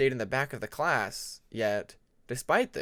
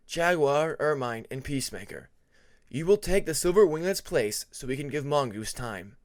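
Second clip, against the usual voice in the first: teacher voice. Acted. Teacher Webbs assigns next group.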